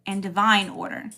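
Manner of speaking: slow, with pauses between phrases; slow declaration. Shown as a demonstration. Host leading viewers in an alignment declaration, slow and deliberate. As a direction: say it slowly enough to be repeated along. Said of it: "I'm gonna say it slow".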